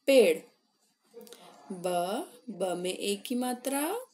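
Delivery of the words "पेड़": plain. Shown as a demonstration. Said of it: "प में एक की मात्रा".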